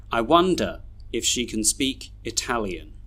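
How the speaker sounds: "can" reduced to kun; measured model reading with weak "can"; schwa weak forms. Shown as a demonstration. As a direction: end "wonder" on a weak uh. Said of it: "read all these sentences with their schwas".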